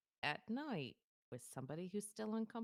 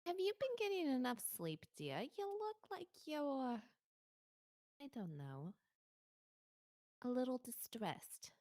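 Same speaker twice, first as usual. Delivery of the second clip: sugary concerned coworker; 7 semitones higher than usual. Acted. Sweet condescending coworker voice.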